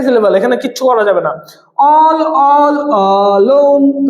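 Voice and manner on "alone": "alone" said as a... lone; divided into syllables. Shown as a demonstration. Teacher marking the hyphen spot, "alone" split as a-lone. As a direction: hold apart both parts of "alone". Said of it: "তার মানে আ আর লোন".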